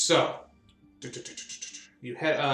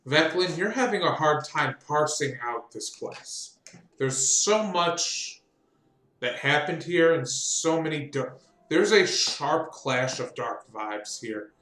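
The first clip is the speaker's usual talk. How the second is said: game master narration. Acted. GM sets the dark scene.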